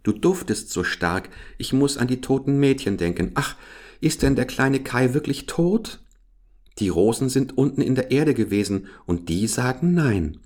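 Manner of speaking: fretting for little Kai; little Gerda, worried. Acted. Little Gerda frets to the flowers, lightly girlish voice.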